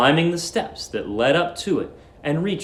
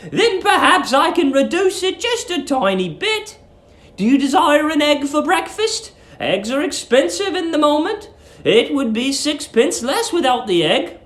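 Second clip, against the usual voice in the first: sweet landlady; 12 semitones higher than usual. Acted. Landlady luring the young lodger, high sugary coo. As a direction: coo at him like a doting landlady.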